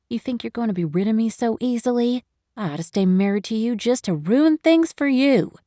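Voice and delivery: spiteful retort. Acted. Wife retorts to the divorce text, mildly spiteful. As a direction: throw it back as a threat. Angry retort to Spencer's message.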